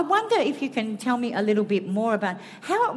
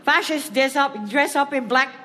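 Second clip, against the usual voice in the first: mock Irish priest, higher and emphatic; bad Irish accent; 4 semitones higher than usual. Quoting Ted on stage, rough Irish accent. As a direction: quote Father Ted in a rough Irish lilt. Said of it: "Another one from Father Ted".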